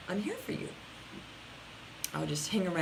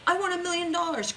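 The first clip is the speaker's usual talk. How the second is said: mock eager client; 10 semitones higher, 3 dB louder than usual. Client voiced, high pitch.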